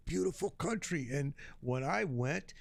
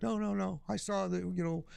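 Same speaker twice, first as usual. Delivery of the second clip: put-on old man voice; 5 semitones higher than usual. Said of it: "he's like".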